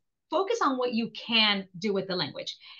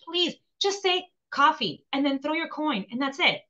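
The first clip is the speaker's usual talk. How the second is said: blunt bartender advice; 3 semitones higher than usual. Retold or imitated. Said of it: "the bartender stops me one day and says".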